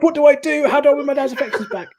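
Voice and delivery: high-pitched, worked-up questioning; mock desperation. Son at a loss to win dad back, mock desperate. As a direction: plead for ideas in comic despair.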